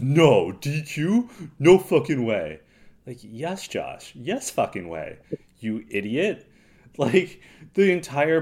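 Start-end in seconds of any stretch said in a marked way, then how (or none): 0.0-2.6 loud mock protest; mock outburst. Josh refusing the disqualification, loud mock protest. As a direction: blurt it out like a sore loser. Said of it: "And Josh goes".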